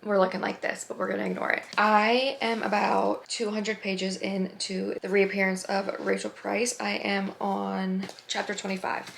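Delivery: hoarse, worn-out voice after a night out; raspy whisper. Real, not acted. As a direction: voice nearly gone, rasping. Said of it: "so I have no voice".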